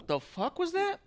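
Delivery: high, startled mock Drew; mock shock. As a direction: react like you just got insulted, high. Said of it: "make Drew go".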